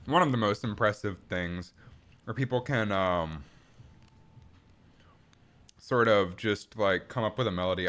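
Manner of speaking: talking through a mouthful; words round a bite of protein bar; mouth full. Real, not acted. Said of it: "rude to talk with my mouth full".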